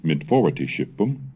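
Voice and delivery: put-on measured, careful recitation of old text; Old English reading. Shown as a demonstration. Lecturer reading the Anglo-Saxon Chronicle to students, measured recitation. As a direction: read the chronicle aloud like a scholar demonstrating.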